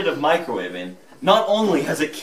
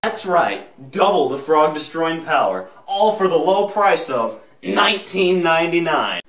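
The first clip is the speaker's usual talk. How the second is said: infomercial. Acted. Infomercial pitch.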